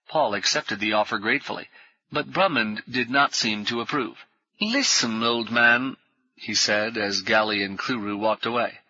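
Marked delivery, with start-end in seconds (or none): 4.6-5.9 hearty ex-officer. Acted. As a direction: bluff old soldier greeting new friends. Brummond confides.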